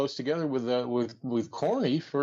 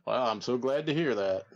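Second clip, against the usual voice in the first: Jim Barnett impression. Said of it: "sound a little bit more like Droopy Dog".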